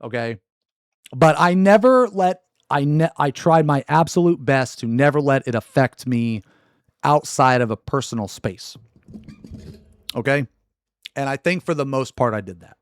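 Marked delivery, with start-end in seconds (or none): 1.1-8.8 louder, firmly insisting; emphatic insistence. Real, not acted. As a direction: push it out, insistent. Insisting he never let it.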